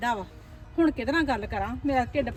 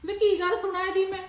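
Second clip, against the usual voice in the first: raised, higher and sharper complaint; angry complaint; 4 semitones higher than usual. Acted. Mother-in-law complaining to her son, angry and raised. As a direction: snap back at the son with a grievance.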